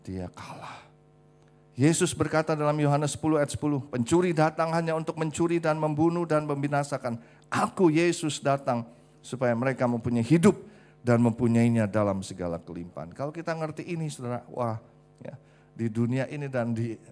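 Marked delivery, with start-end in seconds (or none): 1.7-13.2 loud, raised preacher's proclamation; forceful, projected sermon delivery; full-force preaching. Acted. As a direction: proclaim the scripture to the whole congregation.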